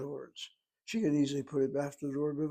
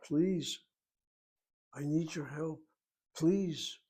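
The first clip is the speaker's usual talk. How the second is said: insistent plea, pitched up a little; mock pleading cry; 2 semitones higher than usual. Someone crying out to you for help, pleading. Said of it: "When someone screams at you".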